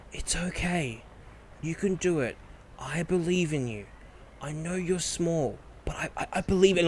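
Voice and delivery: a hint of a gentle ogre reassuring; encouraging ogre. Ogre coaxing reluctant goblin, softly encouraging. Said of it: "she's saying".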